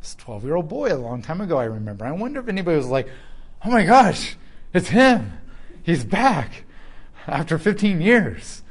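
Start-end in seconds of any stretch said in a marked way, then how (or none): 3.6-8.6 a sudden loud burst of amazement; excited recognition. Retold or imitated. Townsfolk spotting the grown-up prodigy, loudly amazed. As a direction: gasp it out like you've spotted someone long gone.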